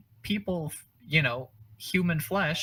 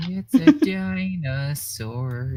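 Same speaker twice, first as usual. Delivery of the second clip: dinosaur voice; 3 semitones higher, 6 dB louder, slower than usual. Pretend. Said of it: "The greatest dinosaur noise I've ever heard".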